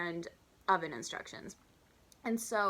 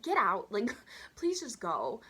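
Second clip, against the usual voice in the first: pleading get out; 3 semitones higher, 4 dB louder, slower than usual. Pretend. Wishing the table would leave.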